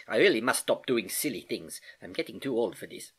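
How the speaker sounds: rueful Uncle Albert. Acted. Uncle Albert scolds himself.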